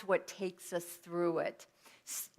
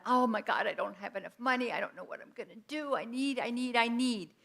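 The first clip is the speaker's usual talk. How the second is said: mock money panic; faster than usual.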